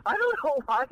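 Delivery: can't stop giggling; laughing. Real, not acted. Cohost laughing at the host's DJ voice. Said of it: "you make me laugh".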